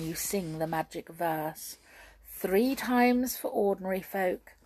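lightly voiced scheming witch; hushed, conspiring witch instructions; sly witch.

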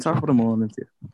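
lightly put-on Irish accent. Teasing mates about Ireland in a put-on Irish accent. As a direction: have a go at a stock Irish greeting accent. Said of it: "You like your accents".

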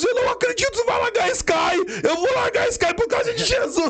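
very high-pitched mock shout, near wailing; amazed outburst. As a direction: act out a friend's overcome, incredulous cry. Acts out Carlos's amazed outburst. (imitando exclamação exaltada, bem aguda e quase chorosa)

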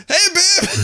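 high, laughing hey babe; fake-casual greeting. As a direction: pretend to be sober for her. Drunk trying to act sober to girlfriend.

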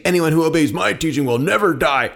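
mildly mocking echo of a claim; incredulous quoting. A narrator's reading. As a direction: throw the claim back in disbelief. Crowd throws his words back.

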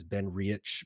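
Riach ending in a soft 'itch' sound; common misreading. Shown as a demonstration. Showing how people read the label, Riach as 'ree-utch'. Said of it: "a lot of people read it as".

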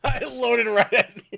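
real laugh through the words, slowly; can barely get it out for laughing. Real, not acted. Laughing while his friend's video breaks.

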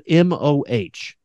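M O H said letter by letter; spelling it out. Shown as a demonstration. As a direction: spell M O H out one letter at a time. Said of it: "His first name is spelled".

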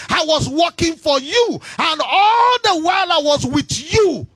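elder son shouting his grievance; indignant elder brother. Acted. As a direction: protest like a wronged son. Elder brother complaining to father.

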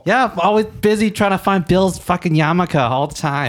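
a hint of a Jewish mother; Jewish lady voice. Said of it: "a Jewish lady".

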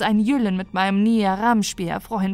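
tearful despair. Acted. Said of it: "Tränen in ihren Augen".

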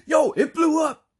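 slow, high, full mock shout; excited emphasizer. Henry echoes Mike about the explosion, imitated in an excited shout. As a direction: bellow it as an overexcited echo. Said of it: "he's almost like an emphasizer".

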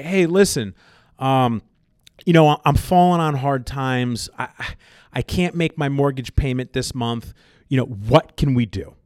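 lightly voiced humble, polite request; polite ask. Caller asking the mortgage company for help, politely. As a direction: ask for help like a decent human. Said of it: "acting like a decent human".

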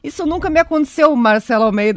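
talking through hiccups; hiccuping between words. Real, not acted. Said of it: "eu estou com soluço no ar".

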